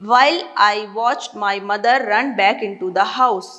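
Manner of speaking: slow, measured English reading; deliberate, drawn-out read-aloud pace; story read-aloud. A narrator's reading. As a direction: read the passage aloud slowly, word by word. Reads story passage aloud.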